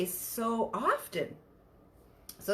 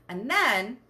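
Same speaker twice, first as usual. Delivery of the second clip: ordinary talk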